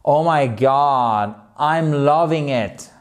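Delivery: drawn-out, gushing emphasis; emphatic enthusiasm. Shown as a demonstration. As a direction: savour it slowly, like you really love it. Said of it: "afin d'appuyer vraiment que c'est trop bien". (enthousiasme appuyé, en traînant)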